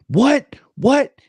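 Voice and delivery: sudden high, loud double what; gunny caught out of uniform, panicked high loud what; startled panic. Retold or imitated. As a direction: yelp it in alarm, caught out. Gunny startled by boss arriving.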